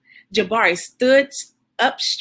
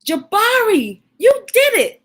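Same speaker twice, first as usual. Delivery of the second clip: proud dad; 10 semitones higher than usual. Acted. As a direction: cheer him on like a proud father. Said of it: "said his dad".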